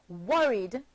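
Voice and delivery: "worried" in two syllables with a D ending; two-syllable pronunciation. Shown as a demonstration. Teacher models the past tense, "worried" in two syllables ending in D. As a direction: say "worried" with no extra vowel before the final D. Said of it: "and is pronounced".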